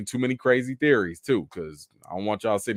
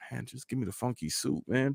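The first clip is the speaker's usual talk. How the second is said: much softer, under-the-breath grumble; fed-up kid, imitated; 9 dB quieter than usual. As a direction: mumble it like a sulking kid.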